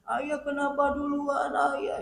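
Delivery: keen it out like a grieving widow; high sing-song lament of a widow screaming in the house; sing-song wailing. Retold or imitated. Widow tantrum again.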